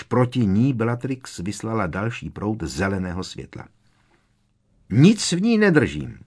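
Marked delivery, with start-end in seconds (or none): 4.9-6.2 loud, higher hoot. A narrator's reading. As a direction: call it across the hall. (hlasité houknutí)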